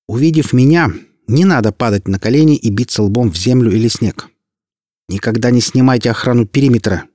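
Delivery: lightly voiced demon queen giving orders; commanding demon mistress. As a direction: speak down to subjects with authority. Demon queen addresses servants.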